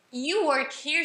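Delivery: "You work here" as a statement lifted into a question; casual "You work here", rising on "here"; informal question intonation. Shown as a demonstration. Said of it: "colocam a entonação de uma pergunta".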